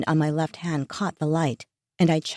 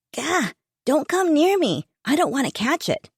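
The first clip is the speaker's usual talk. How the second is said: put-on disgusted teen; 9 semitones higher than usual. Son recoiling from sick mom.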